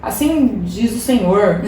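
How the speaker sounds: slow, solemn prophetic proclamation, lightly voiced; prophetess proclaiming. Street prophetess declaring God's word over Sara, lightly imitated slow solemn voice. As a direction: intone it like a street prophetess, unhurried. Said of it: "Aí ela começou".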